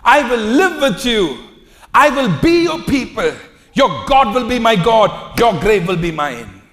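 fervent reading. Acted. Preacher reading Ruth's five vows, high and loud. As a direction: read the pledge out like a passionate oath. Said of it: "Let me read it out for you".

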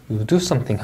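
'you do something' with a falling close; falling intonation. Shown as a demonstration. Teacher modelling the main clause, falling tune. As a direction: bring 'something' down to finish. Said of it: "하고 내려 읽어주시면 되겠고요".

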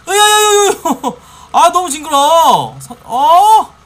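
long high loud disgusted scream; shriek, then laugh in disgust; screaming while falling. Real, not acted. Blood pumping out, grossed out.

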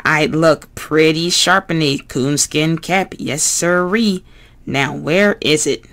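earnest, patient Bert, lightly voiced; fussy puppet explaining seriously. Bert voice, pleased.

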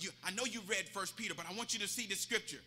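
low, steady pastoral reassurance; calm counsel. Retold or imitated. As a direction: keep it down, gently steering him. Pastor calmly counsels desperate man.

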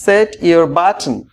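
tie your tie stretched out very slowly; slow model phrase. Shown as a demonstration. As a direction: draw out each word for learners. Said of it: "তাই আপনিই শুরু করে দিন".

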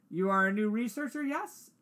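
put-on light European accent, rising on "yes". Doctor questions the new researcher, light European accent. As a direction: ask it in a mild European accent, lifting the end. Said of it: "European accent".

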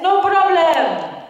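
put-on the driver's easy Arab-accented reassurance; Palestinian taxi driver accent. Taxi driver answering the journalist, light Arab accent. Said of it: "I really have to do the accents".

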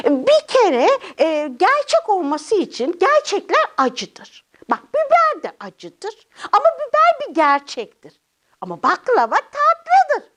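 high character voice laying out silly logic; small puppet lecturing, pitch swooping; know-it-all puppet child. Acted. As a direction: argue it out like a cheeky little puppet. Puppet argues absurd logic.

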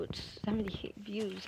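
hushed, slow whisper; soft secret whisper over the count. Real, not acted. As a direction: whisper it to yourself, pleased. Gloating quietly over view count.

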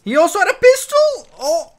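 high, loud disbelieving question; shocked disbelief at a pistol; surprised. Real, not acted. Shocked at enemy's weapon.

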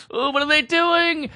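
high, slow, scandalized gasp of a listener; shocked listener voice. Retold or imitated. Mocking the audience, high and slow with mock shock. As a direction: play the clutching-pearls listener.

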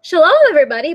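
lightly voiced old Baba, sweet and welcoming; a hint of a delighted old granny at the door; old woman's voice. A narrator's reading. Old woman greeting her guest at the door, sweetly.

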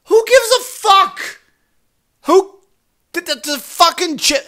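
very high squeaky mock voice, slowed; mocking the Karens fussing over a chipmunk; mocking the women. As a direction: parody the women as shrill airheads. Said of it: "And they're like".

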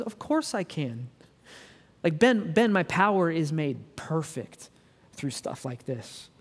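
slow, tender, softening to a hush; gentle reassurance. Pretend. Jesus answering Ben's question, slow and tender. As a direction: reassure him like a patient friend.

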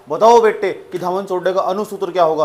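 a touch of a demanding teacher; teacher quizzing. Acted. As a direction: put a loud classroom question to a pupil. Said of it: "teacher तुमसे पूछ सकता class में".

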